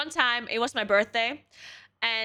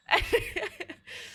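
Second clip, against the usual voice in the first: high giggle; 11 semitones higher than usual. Real, not acted. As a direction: burst of high laughter. Laughing after own quote.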